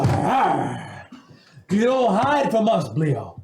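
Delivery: ordinary delivery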